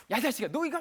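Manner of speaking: high-pitched mock parental scolding; emotional yelling. Parent snapping at a child, emotional yell. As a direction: yell it on impulse, like a parent losing it. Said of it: "막 감정적으로 막 반응하셨죠? 지르신 거예요".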